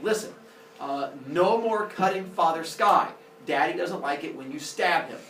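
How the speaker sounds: understated fatherly scolding; mild anger. Acted. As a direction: lay down the law with mild annoyance. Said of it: "Father Sky gets angry".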